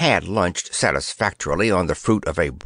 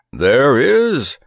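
roar; 3 semitones higher, 6 dB louder than usual. Acted. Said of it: "roared Grandpa".

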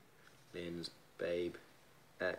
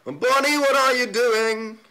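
higher, louder, slow mock scold; teasing a fan by name, slow and loud, higher; mock telling-off; 12 semitones higher, 8 dB louder, slower than usual. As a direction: playfully scold Bonnie, drawn out.

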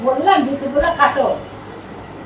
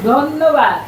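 to someone hard of hearing; 4 dB louder, much slower than usual. Shown as a demonstration. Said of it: "কি বললাম বলো তো?".

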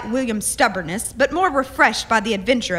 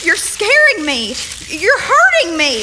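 scared and pleading, voice rising; frightened; 6 semitones higher, 5 dB louder than usual. Acted. Molly to the captain gripping her wrists, frightened. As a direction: beg him to let go, afraid.

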